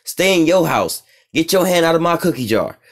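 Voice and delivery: lightly voiced Maduro scolding America to stay home; Maduro imitation. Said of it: "Nicolas Maduro in Venezuela, like".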